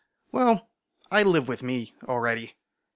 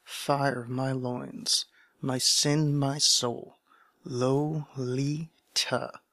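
literary reading; 3 dB quieter than usual. Acted. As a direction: read it like a lingering confession. Reads novel opening aloud.

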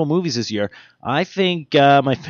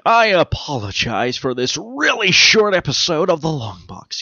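slow, weighty campy TV hero voice; a lightly done campy sixties TV hero; Adam West; 2 semitones higher, slower than usual. Pretend. Host apologizes for the short episode as a campy TV hero, slowly. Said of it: "do it as Adam West".

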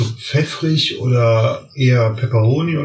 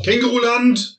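excited; 13 semitones higher than usual. Real, not acted. Excited call about next trip.

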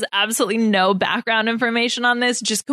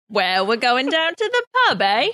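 mock British accent. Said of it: "British impersonating".

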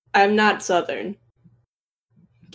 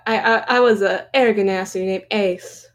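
lightly put-on Southern accent; Southern drawl. Co-host continuing his Southern bit, light mock drawl. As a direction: play at being Southern. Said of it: "Gotta do some Southern drawl".

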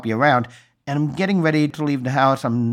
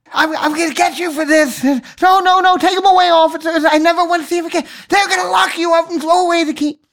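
phone voice; 4 dB louder than usual. Pretend. Phone voice as he's arrested.

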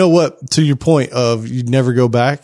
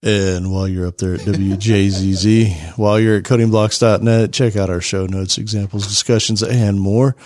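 NPR voice; 4 semitones lower than usual. Pretend. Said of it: "My N P R voice".

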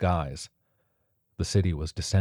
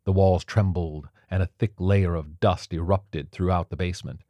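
plain reading voice

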